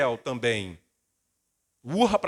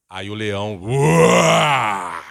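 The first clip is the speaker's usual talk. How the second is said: a big roaring cry, much louder; lion roar; 7 semitones lower, 10 dB louder, much slower than usual. Retold or imitated. Father roaring like a lion at his son.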